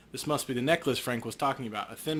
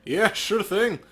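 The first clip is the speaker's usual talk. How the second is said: officer voice; 5 dB louder, much slower than usual. Acted. Officer wishing the detective luck, lightly voiced friendly cop. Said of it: "Officer Aguirre".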